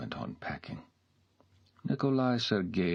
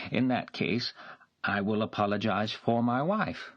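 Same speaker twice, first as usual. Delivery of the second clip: higher, louder, pressing apology; insistent gentleman; 5 semitones higher, 3 dB louder than usual. A narrator's reading. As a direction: push the apology on her. Nikolai voiced, pressing apology.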